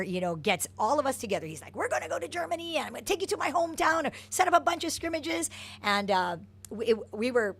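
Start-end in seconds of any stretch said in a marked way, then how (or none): 1.8-5.5 quick, high lightly voiced German accent; a hint of a jovial German coach. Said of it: "he had a really thick German accent".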